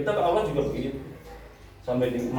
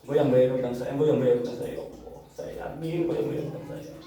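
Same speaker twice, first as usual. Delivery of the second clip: retold tearful prayer. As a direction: plead privately with God, as if near tears. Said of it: "sampai nangis doanya". (menirukan doa lirih sambil menangis)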